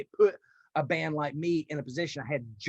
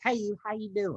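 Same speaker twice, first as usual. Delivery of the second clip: lifted, higher folksy hello; mock friendly greeting; 6 semitones higher than usual. Singer greeting people after the monster act, folksy. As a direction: greet them like a harmless country boy.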